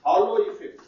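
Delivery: हालो said clearly with a rising ending; teacher repeating term. Shown as a demonstration. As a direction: stress हालो and lift the end of इफेक्ट. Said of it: "H A L O".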